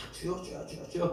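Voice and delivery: soft repeated calling on the Lord; muttered pleading. Retold or imitated. Preacher voicing a parent praying endlessly, softly. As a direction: murmur it over and over.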